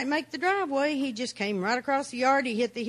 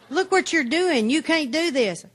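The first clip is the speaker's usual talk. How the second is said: stern warning voice; 5 semitones higher, 4 dB louder than usual. Retold or imitated. Inner voice warns her.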